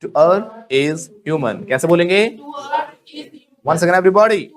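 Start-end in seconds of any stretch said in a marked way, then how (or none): 0.0-1.7 very slow drill. Shown as a demonstration. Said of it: "बोलो".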